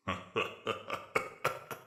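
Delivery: wet, wheezy chuckle under the breath; a wounded beast laughing weakly; soggy chuckle. A narrator's reading. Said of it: "Ridley released a very soggy chuckle".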